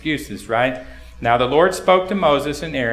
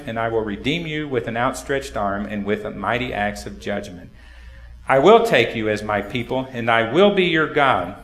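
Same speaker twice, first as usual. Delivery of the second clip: scripture reading; 2 semitones lower than usual. Acted. Pastor reads Exodus to the congregation, solemn reading.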